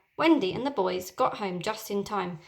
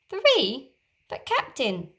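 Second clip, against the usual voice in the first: surprised protest; 4 semitones higher, slower than usual. Acted. Pirate questioning order.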